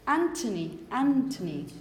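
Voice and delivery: Anthony with a plain T, no TH; T sound. Shown as a demonstration. Teacher corrects a student: Anthony said with a T. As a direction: say Anthony as Antony, with a hard T. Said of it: "it's not Anth".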